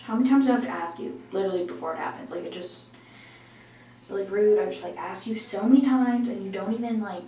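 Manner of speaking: loud, exasperated telling-off; mock scolding. Vlogger nagging viewers for subscribers, mock scolding. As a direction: scold the viewers in pretend outrage.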